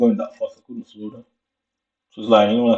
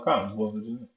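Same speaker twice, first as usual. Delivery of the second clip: put-on Jamaican accent; 8 dB quieter, faster than usual. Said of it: "I said it in a Jamaican way".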